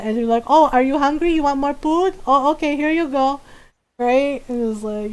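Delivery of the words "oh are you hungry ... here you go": higher-voiced mom pressing food on guests; imitated mom offering food. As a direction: play an eager-to-feed mom, pitched up. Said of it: "she would do that".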